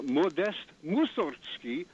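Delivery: Mussorgsky with stress on MUS, said slowly; Mussorgsky as MUS-sorg-sky; stress on first syllable. Shown as a demonstration. Caller naming the composer correctly, first-syllable stress. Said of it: "with emphasis on the first syllable".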